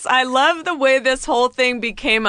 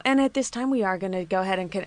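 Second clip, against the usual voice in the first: customer service voice; 5 dB quieter, faster than usual. Retold or imitated. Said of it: "But when they go".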